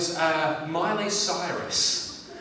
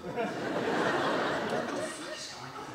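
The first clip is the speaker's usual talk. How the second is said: whispered bewilderment. Acted. Comedian watching the Queen turn to Bette Midler, baffled whisper. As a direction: mouth it under your breath, baffled.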